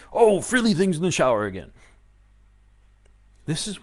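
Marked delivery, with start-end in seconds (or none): 0.1-1.7 louder, raised pitch, huffy "Oh" up front; mock indignant excuse. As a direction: answer like the reason is obvious. Answer to why angry.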